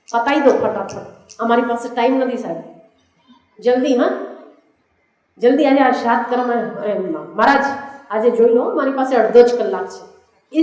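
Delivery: lightly acted hurry, a touch pressing; mock impatient. Busy client rushing the priest through the shraddh, mock impatient. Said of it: "इस उतावलेपन में".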